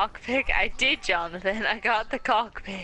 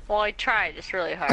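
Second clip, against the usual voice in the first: tipsy, loose delivery; 4 semitones lower than usual. Real, not acted. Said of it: "I'm very drunk right now".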